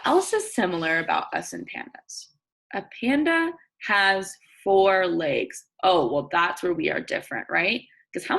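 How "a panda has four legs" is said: slow, clear read-aloud; reading to children. Acted. Teacher reading a picture book to her class. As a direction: read each word out for young listeners.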